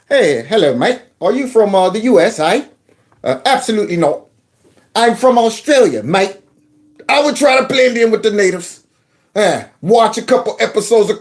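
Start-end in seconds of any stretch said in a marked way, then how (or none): 0.1-2.6 fake Australian accent. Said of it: "fake an accent". 3.2-6.4 fake Australian accent. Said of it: "fake an accent".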